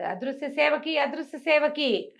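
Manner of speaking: high, drawn-out shouted call; loud calling out. Acted. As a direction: call out for the invisible servant. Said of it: "పెద్ద పెద్ద కేకలు పెడుతున్నాడు". (గట్టిగా పిలుపు)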